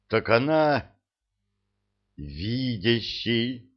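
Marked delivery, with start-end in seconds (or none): 2.2-3.7 breathless awestruck exclamation; stunned gasp. A narrator's reading. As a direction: gasp it out slowly in awe. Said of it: "ошеломлённо выдохнула Оливия". (ошеломлённый выдох)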